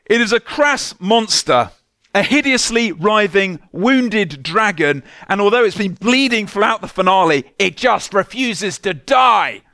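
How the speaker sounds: hammed-up scathing critic, dragging the dragon words; mock critic quote. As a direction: savour the critic's contempt. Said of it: "had this to say".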